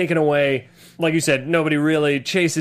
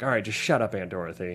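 muttered shut up; 6 semitones lower, 8 dB quieter than usual. Retold or imitated. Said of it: "where I'm like".

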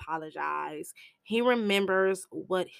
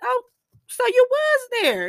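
high, loud sassy gotcha; 7 dB louder than usual. Retold or imitated. Jane catching the brother in his lie, high gotcha. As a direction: pounce on the slip.

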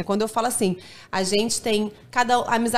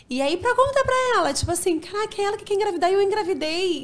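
shocked; 8 semitones higher than usual. Retold or imitated. Retelling shocked pregnancy news.

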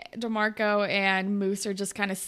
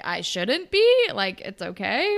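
put-on threatened girlfriend; 4 dB louder, slower than usual. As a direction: act fine while clearly jealous. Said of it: "she's like".

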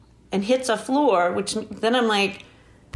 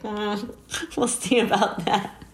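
quiet, slow, doubtful aside; retold sceptical reply; 3 dB quieter, slower than usual. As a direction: play it unconvinced, softly and unhurried. Her sceptical reply to the nurse.

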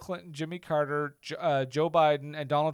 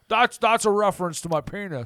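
Jimmy Stewart; 2 semitones higher, 4 dB louder than usual. Pretend. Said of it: "Jimmy Stewart?".

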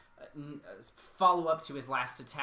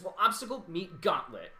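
higher, louder cocky one-liner; cocky hero quip; 4 semitones higher, 4 dB louder than usual. Acted. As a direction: toss it off like a smug hero. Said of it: "Ezreal says".

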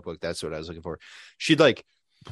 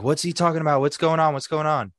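confused coworker; 5 semitones higher, faster than usual. Retold or imitated. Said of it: "In Spanish".

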